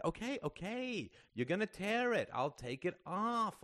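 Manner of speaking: high-pitched placating; exasperated surrender. A narrator's reading. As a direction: give in to end the struggle. Greta gives in during struggle.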